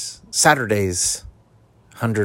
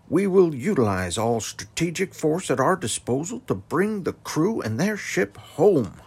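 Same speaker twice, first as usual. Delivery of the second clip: presidential speech; 6 semitones higher than usual. Acted. President's speech about pirates.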